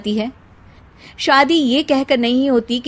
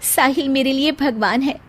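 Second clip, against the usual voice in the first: put-on sad young bride; 5 semitones higher than usual. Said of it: "Sheena कमरे में हाथ में गुड़िया लिए बोलती है".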